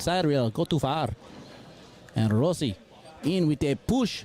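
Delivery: put-on light Mexican-accented play-by-play, lively; a touch of a Mexican sportscaster calling each shot; Mexican commentator. Co-host as Perrito calling the match, light Mexican accent. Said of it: "doing this accent right now".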